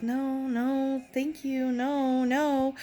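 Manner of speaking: high, quiet mock-polite no thanks; imitating an uneasy friend; uncomfortable polite refusal. Uncomfortable Brittany fending off guy.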